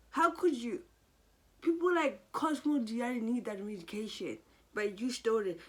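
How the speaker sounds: hammed-up furious reproach; imitating furious accusation. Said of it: "She was just so angry".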